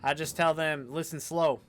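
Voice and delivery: quick, lightly attempted Kentucky twang; hint of a Kentucky accent, a bit loud; fast Kentucky twang. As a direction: read it briskly with a touch of Kentucky twang. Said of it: "you have to talk fast, but with a K Y twang".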